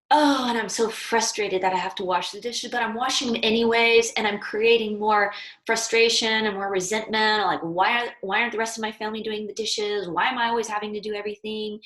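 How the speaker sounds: a hammed-up sulky grumble about the dishes; frustrated complaining. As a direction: play the fed-up one stuck with the chores. Example of resenting washing dishes.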